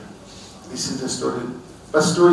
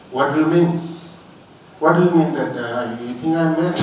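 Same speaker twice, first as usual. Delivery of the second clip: louder, a touch of an irritated businessman; annoyed; 2 semitones higher, 7 dB louder than usual. Retold or imitated. Annoyed businessman scolding the young man under the tree, louder. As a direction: snap back at the young man, mildly annoyed. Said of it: "businessman got annoyed".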